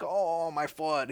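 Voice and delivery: slow, drawn-out fake moan of pain; hammed-up wail over an injury; mock crying. Man with spiked foot, mock wailing. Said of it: "he wasn't crying or anything".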